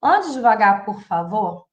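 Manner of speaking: put-on polite positive command to a child; gentle request. Shown as a demonstration. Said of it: "eu vou falar".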